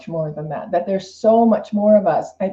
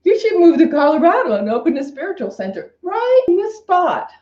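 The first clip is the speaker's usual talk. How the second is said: voice of intuition; 8 semitones higher than usual. Pretend. Voicing the intuition's advice.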